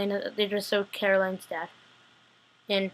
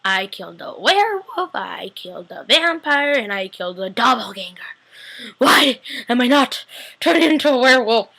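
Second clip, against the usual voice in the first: pissed off; 2 semitones higher, 5 dB louder than usual. Retold or imitated. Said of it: "Klaus is pissed off".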